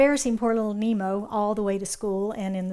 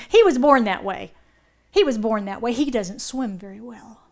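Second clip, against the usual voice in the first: protective dad; 6 dB louder than usual. Acted. Dad cutting in on kids.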